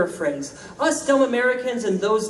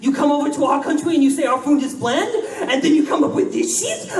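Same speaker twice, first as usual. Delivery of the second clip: mock outraged Brit, in a British accent; 5 semitones higher than usual. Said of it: "and I'm gonna try their accent".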